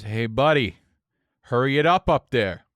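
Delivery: irritated heckle from behind; upset customer. Retold or imitated. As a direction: imitate an impatient drunk calling up the line. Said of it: "he got upset".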